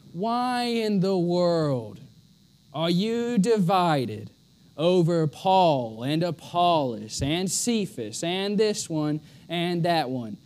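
slow, lightly voiced annoyed Paul; a hint of Paul's exasperation, drawn out. Preacher voicing Paul scolding the divided church, slow and annoyed. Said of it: "He's downright annoyed at this point".

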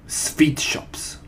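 put-on accented witch reveal, w said as v; understated, portentous answer; Grand High Witch. A narrator's reading. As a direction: announce it with villainous relish. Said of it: "shouted the Grand High Witch".

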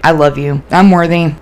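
half-hearted mantra, no belief in it; going through the motions; unconvinced. Retold or imitated. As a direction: recite it without believing a word. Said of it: "but I didn't believe it".

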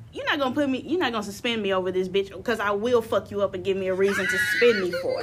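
angry threat. Retold or imitated. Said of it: "But I was like".

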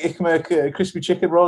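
"Ich merke" in clumsy schoolbook German; bad-German "Ich merke", said as /ɪk mək/. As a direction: mangle "Ich merke" like a tourist. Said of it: "It was just so bad German".

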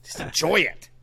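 high, insistent whiny defense; mock defensive. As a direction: plead high that it's happening. Acted husband defending in bed.

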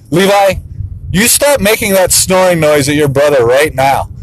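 a hint of a stern father; obligatory dad voice. Dad telling son to stop, lightly stern dad voice. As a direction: scold dutifully, not really feeling it. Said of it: "dad voice. Not even really feeling it".

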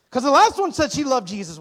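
shouted high, comic despair; hammed-up wail. Son to mom, high loud comic wail. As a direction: cry it out like it's a tragedy.

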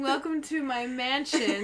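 slow, mock-gracious hostess; lightly regal, drawn-out welcome; princess greeting. Shown as a demonstration. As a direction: welcome a guest with put-on grandeur. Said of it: "you speak like this".

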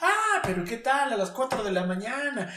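loud, high taunting reproach; mock scolding. Drill leader reminding recruits of drunken nights, mock scolding.

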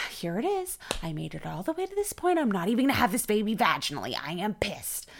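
indignant retold rant, quickening; mildly heated replay of being mad; retold anger. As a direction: vent like a fed-up mother in labor. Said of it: "I was so mad".

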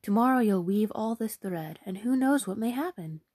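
beam with royal delight; hammed-up enthusiastic queen.

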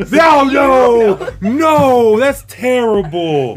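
cracking up while protesting; laughing protest. Real, not acted. Laughing protest at dark joke.

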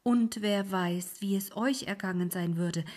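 high, loud horrified cry; the ferryman cries out in alarm; alarmed old ferryman. Acted. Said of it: "rief der Alte".

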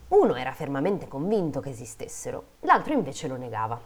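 measured fairy-tale reading; story narration. A narrator's reading. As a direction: read it out like a storyteller. Reads a fairy tale aloud.

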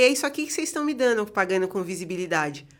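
irritada. Retold or imitated. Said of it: "eu fiquei pistolaça".

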